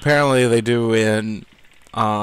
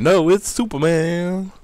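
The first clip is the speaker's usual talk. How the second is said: dramatic announcer; 7 semitones higher than usual. Retold or imitated. Quoting famous Superman line.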